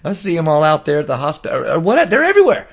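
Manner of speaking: retold rant to a friend, rising in disbelief; building incredulity. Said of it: "I go, I go".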